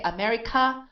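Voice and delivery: America with stress on the last "ka"; America leaning hard on its last syllable; wrong final stress. Shown as a demonstration. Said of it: "we're stressing the k".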